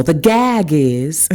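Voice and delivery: drawn-out catchphrase, lightly imitated; slow, playful hint of an impression; Keke Palmer. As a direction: lightly mimic a celebrity catchphrase, stretching it out. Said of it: "in my Keke Palmer voice".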